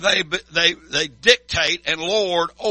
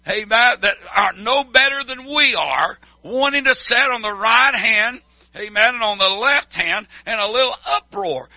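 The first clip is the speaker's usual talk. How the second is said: grumbling disciples; 3 semitones higher than usual. Retold or imitated. Preacher voicing jealous disciples griping. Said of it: "And they said".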